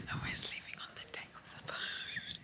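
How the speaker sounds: hushed whisper so nobody wakes; soft breathy late-night whisper. Real, not acted. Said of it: "I'm whispering 'cause I don't wanna wake people up".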